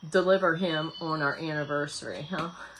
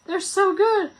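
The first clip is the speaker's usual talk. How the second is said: laughing; 12 semitones higher, 7 dB louder, slower than usual. Real, not acted. Raving about garden tomatoes.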